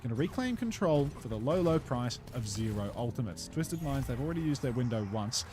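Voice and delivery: esports play-by-play. Acted. Casts the Overwatch match.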